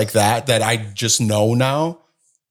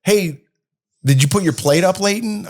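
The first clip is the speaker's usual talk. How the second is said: put-on higher kid voice; imitating the kids; 8 semitones higher than usual. Dad imitating the kids picking up mom's sayings, higher child voice. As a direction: mimic a kid calling to a brother, pitched up. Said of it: "they're like".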